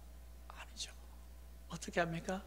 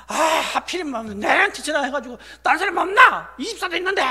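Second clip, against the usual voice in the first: louder, higher mock complaint; exasperated grumbling; 9 semitones higher, 11 dB louder than usual. Church member asked for help by the pastor, grumbling in exasperation. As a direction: moan as if unfairly picked on.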